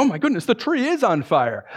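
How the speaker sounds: gasp-like realisation, put on; acted astonishment. You at first glance at the tree, acted astonishment.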